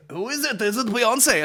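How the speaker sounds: high-pitched giddy guessing; hammed-up wonder; mock excitement. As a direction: imitate an overexcited panellist, high and urgent. Mimics excited TV show guessing.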